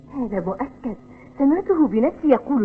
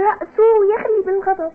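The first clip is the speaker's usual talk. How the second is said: giggling while teasing someone; chuckling mockery; laughing tease; 6 semitones higher, 3 dB louder than usual. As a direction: laugh through the jab at the angry boss. Mocking the furious boss.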